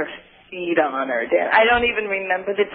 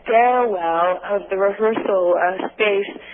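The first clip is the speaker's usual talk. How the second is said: talking in a hollow, echoing stairwell. Real, not acted. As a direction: voice ringing in a stairwell. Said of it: "I'm actually in the stairwell".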